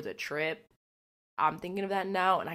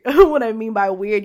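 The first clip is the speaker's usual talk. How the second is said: loud laughing restart; 4 semitones higher, 14 dB louder than usual. Real, not acted. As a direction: laugh through it.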